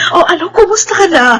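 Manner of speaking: choked-up, tearful question; asking through tears; tearful greeting. Acted. Mother greeting her long-lost daughter through tears.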